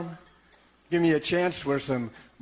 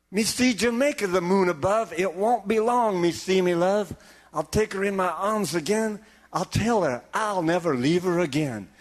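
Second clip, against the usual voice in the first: lightly voiced Jamaican sailor; Jamaican dialect; 2 semitones higher than usual. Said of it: "talking in a Jamaican dialect".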